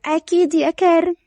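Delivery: mildly sorrowful reply; a touch of hurt; sad. Acted. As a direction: agree with understated sadness. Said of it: "لورا بحزن".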